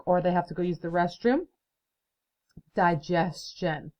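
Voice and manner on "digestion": clapping syllables. Shown as a demonstration. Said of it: "Let's clap that out".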